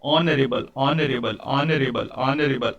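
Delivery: "ऑनरेबल" with silent h, opening on "aa"; pronunciation demo. Shown as a demonstration. Teacher showing the h is not sounded, measured "ऑनरेबल". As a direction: repeat "ऑनरेबल" evenly, falling, vowel first. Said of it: "उच्चारण जो है".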